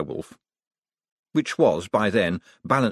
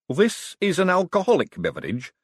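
high, nervous query; anxious little man checking; 10 semitones higher than usual. A narrator's reading. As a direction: ask timidly in a raised, worried voice. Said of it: "said Hubert nervously".

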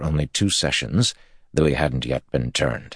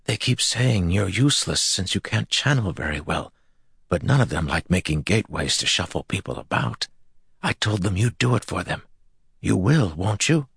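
higher, eager, pleading tone; frenzied eager voice; 5 semitones higher than usual. Acted. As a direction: press him eagerly. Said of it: "eyes frenzied".

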